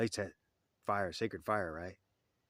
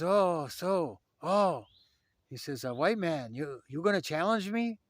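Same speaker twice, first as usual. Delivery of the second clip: affronted elder; 8 semitones higher, 7 dB louder, slower than usual. Retold or imitated.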